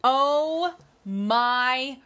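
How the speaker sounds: very slow, drawn-out amazement; stretched-out delight. Real, not acted. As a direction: savour every word in awe. Sees the pumpkin gift.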